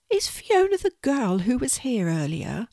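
high, small questioning spider; little spider voice. Acted. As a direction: ask tentatively as a tiny spider. Spider asks about the girl.

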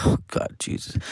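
whispered, exasperated aside; whispered under the breath. Retold or imitated. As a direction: breathe it out in disbelief. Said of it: "I'm like".

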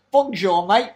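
hint of a French accent on Bonjour; lightly Frenchified greeting, nasal on on; mock French greeting. Joking about Alpine calling Peugeot, a hint of French accent. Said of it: "or it'd be more like".

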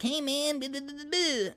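very high, hammed-up buddy voice; mock rapper greeting. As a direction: squeak it out like a goofy passerby.

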